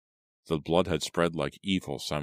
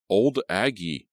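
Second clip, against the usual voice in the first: shocked, louder and higher outcry; startled gasp; 5 semitones higher, 5 dB louder, slower than usual. Acted. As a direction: blurt the name in fright. Sudden terror at attacker.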